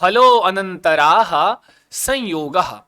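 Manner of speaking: slow, drawn-out recitation of the sutra. Shown as a demonstration. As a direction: stretch the long syllables for learners to repeat. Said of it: "बोलते हैं सूत्र क्या है". (धीरे, खींचकर सूत्र-पाठ)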